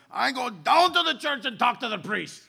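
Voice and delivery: retelling the outraged man with a laugh; laughing, animated retelling of an indignant man. Retold or imitated. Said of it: "He said in a very animated tone".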